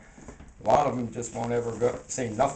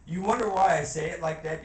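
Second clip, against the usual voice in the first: louder; 3 semitones higher, 5 dB louder than usual. Real, not acted. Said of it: "that little inflection in my voice".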